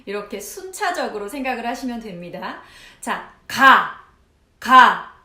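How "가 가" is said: loud, punchy 가 syllables; loud drill. Shown as a demonstration. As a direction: hit each 가 hard. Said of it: "한번 해보세요".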